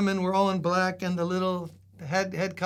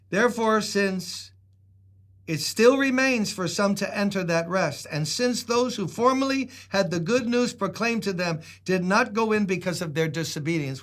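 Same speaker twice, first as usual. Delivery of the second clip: reads Scripture to the congregation, measured and a little raised; scripture reading; 2 semitones higher than usual. Acted. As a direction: lift the verse up for the church. Reads Hebrews aloud.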